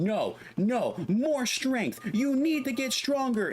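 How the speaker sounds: mock yelling. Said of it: "like, yelling at him".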